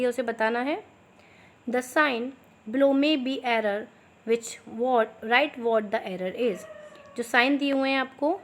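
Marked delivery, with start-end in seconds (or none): 1.7-6.7 slow, clear dictation pace for students to write. Shown as a demonstration. Teacher dictating slowly to her students. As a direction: spell it out slowly so they can copy. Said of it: "थोड़ा मैं slow slow बोलूँगी".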